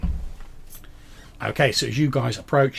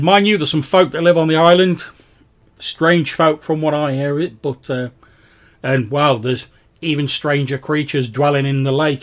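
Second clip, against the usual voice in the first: loud, raised ferryman voice; warning ferryman; 5 semitones higher, 9 dB louder than usual. Acted. Ferryman warns of strange folk and creatures, loud and raised. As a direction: warn them loudly as the local ferryman. Game master plays the ferryman.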